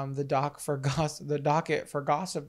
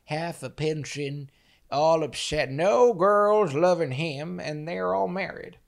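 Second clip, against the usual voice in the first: mocking pity; slower than usual. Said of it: "the pig, if you will".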